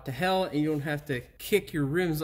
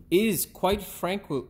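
slow careful retake; 3 semitones higher, slower than usual. Shown as a demonstration. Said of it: "fuck, I did it again".

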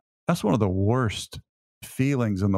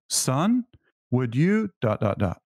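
impatient parent; 3 semitones higher, slower than usual. Retold or imitated. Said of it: "I always used it with this tone".

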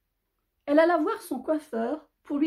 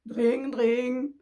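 sustained telephone "dring dring"; imitated phone ring. Phone keeps on at unwilling Noël, imitated ringing. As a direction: ring on insistently, without raising the voice. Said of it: "fit soudain le téléphone".

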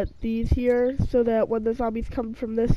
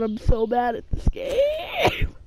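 frustrated outburst; 3 semitones higher, slower than usual. Real, not acted. Flubs the game, frustrated outburst.

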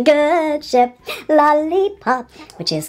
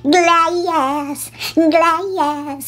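Britney impression; 5 semitones higher than usual. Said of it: "I can go, glass, glass, just like you".

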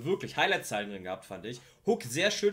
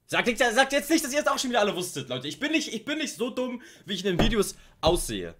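much higher and louder, rushing the words; excited protest; 8 semitones higher, 3 dB louder than usual. Real, not acted. Streamer pleading with chat not to mock him, excited and high. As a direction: protest fast and loud, half laughing.

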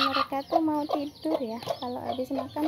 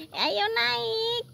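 higher sing-song coaxing with rising yuk; coaxing pet talk; 11 semitones higher, 3 dB louder than usual. Acted. Urging her squirrels to climb the tree, higher sing-song coax. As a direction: coax them up like a fond owner.

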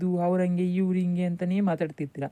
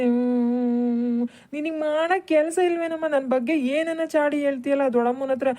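put-on whining child; 4 semitones higher than usual. Son whines complaint to mother.

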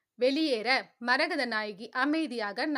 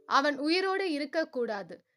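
vengeful. Acted. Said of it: "மனதில் வன்மமாக நினைத்து".

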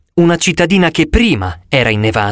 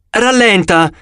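exclaiming; 5 semitones higher, slower than usual. A narrator's reading. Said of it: "esclamò Apollo".

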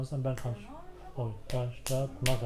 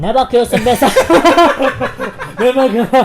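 helium; 4 semitones higher, 11 dB louder than usual. Real, not acted. Helium voice, laughing.

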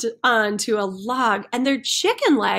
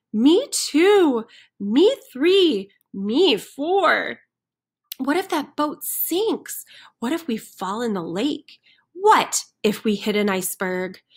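fretting chickens; 2 semitones higher than usual. Acted. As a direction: pile on the what-ifs nervously.

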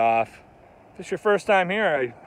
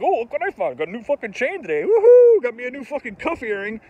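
mocking excited goth; 6 semitones higher, 6 dB louder than usual.

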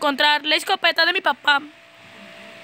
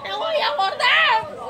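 mock threat; 7 semitones higher, slower than usual. Real, not acted. Panicked game moment.

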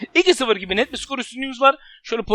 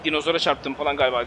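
lower, softer dazed voice; voicing the player; 9 semitones lower, 6 dB quieter than usual. Gamer voicing a dazed opponent, low and soft.

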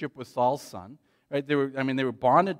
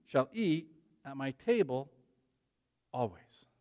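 tender reading; 3 dB quieter, slower than usual. Acted. Reading the king's promise.

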